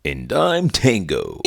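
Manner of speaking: slow, goofy horse puppet; drawn-out puppet character. Acted.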